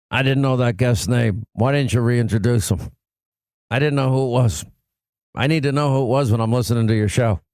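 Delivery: low morning radio man; scolding in a deep announcer voice; Scott Shannon. Acted. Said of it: "has that morning voice deepness to it".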